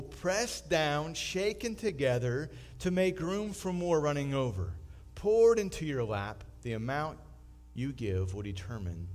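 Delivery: solemn scripture reading from the pulpit. Acted. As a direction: read it out as holy word. Reads scripture.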